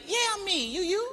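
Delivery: high chirpy reply; high sing-song yeah I'm me; mock fan echo. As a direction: tease them back playfully. Answering fans.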